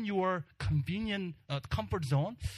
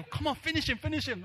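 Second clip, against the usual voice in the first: laughing yell; 11 semitones higher, faster than usual. Retold or imitated. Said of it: "We're ye-, yelling".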